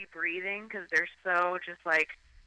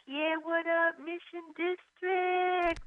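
hyped stand-up host; 9 semitones higher, 4 dB quieter, much slower than usual. Retold or imitated. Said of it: "I'd be like".

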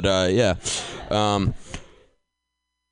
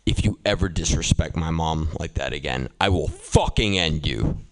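movie-style threat; 2 semitones lower than usual. Retold or imitated. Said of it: "that's from Good Will Hunting".

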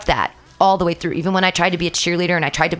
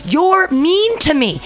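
put-on hurt child; 11 semitones higher, 4 dB louder, much slower than usual. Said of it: "And I'm like".

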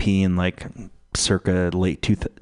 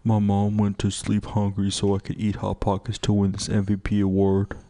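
mock tearful athlete. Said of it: "Kevin Durant is like".

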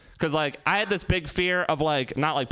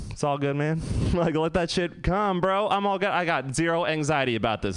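laid-back bro voice; 3 semitones higher than usual. Retold or imitated. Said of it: "My asshole, however, is like".

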